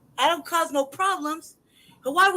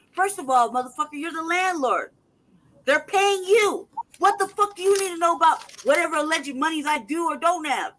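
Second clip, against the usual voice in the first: louder and higher, furious at the landlord; angry outburst; 4 semitones higher, 4 dB louder than usual. Real, not acted. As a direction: spit it out in real anger. Furious rant at landlord notice.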